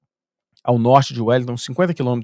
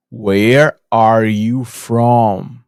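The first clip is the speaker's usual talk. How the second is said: imitating her loud, lower, dragged-out English; slow, loud questioning; 4 semitones lower, 5 dB louder, much slower than usual. Neighbour giving up guessing the foreigner's origin, slow and loud. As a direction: pull each word far apart, loud, for a slow listener. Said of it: "ela virou e falou assim".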